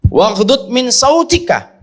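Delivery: slow Quran recitation. Shown as a demonstration. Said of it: "Teruskan, Mas".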